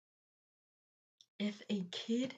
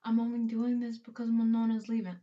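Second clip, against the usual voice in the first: louder mocking quote of a critic; mock commenter; 7 dB louder than usual. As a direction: parrot an accusing comment, louder. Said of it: "come at me in the comments that".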